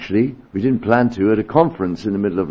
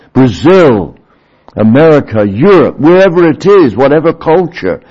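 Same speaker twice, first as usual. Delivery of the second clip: ringing proclamation; 6 semitones higher, 7 dB louder than usual. Acted. Preacher to congregation, voicing Christ's promise in a loud ringing call. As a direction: proclaim it with rising power.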